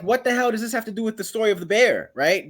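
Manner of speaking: exasperated, swooping demand; mock-indignant reader's protest; baffled complaint.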